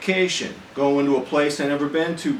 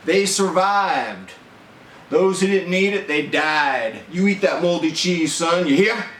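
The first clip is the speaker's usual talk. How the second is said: imitating military father; 4 semitones higher than usual. Father lecturing his young son over moldy cheese, mock-stern. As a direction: lay down the law about moldy cheese like a drill sergeant. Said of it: "He goes".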